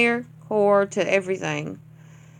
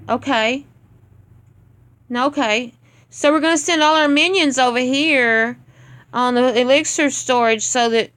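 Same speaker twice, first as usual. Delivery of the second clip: loud, mocking quiz of each bad move; sarcastic scolding; 3 semitones higher, 4 dB louder than usual. Real, not acted. Clan leader mocking a member's failed attack, loud and sarcastic. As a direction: rub his mistakes in, louder and louder.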